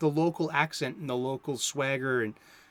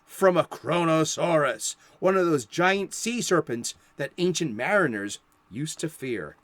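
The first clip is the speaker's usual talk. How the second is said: put-on Boston accent; 4 semitones higher, 7 dB louder than usual. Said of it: "with my South Boston accent".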